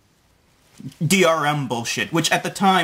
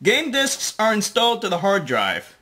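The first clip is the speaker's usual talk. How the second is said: mock British accent; 4 semitones higher than usual. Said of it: "why the fuck are you talking like a British guy".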